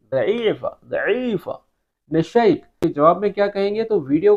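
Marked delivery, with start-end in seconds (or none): 0.1-1.5 ضعیفہ with a d-like first sound and a long middle; ضعیفہ drawn out for a learner; Arabic d-like ض. Shown as a demonstration. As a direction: model ضعیفہ clearly, starting on a heavy d. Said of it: "یہاں پر ہم دال سے اس کی pronunciation لیں گے".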